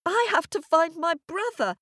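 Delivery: put-on high, insistent child voice; stamping little girl. A narrator's reading. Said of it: "stamping her foot".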